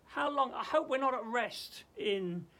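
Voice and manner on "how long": a higher, louder plea to God; anguished cry. Pretend. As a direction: cry out to heaven in anguish, pitched up. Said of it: "I hope you and I are crying out".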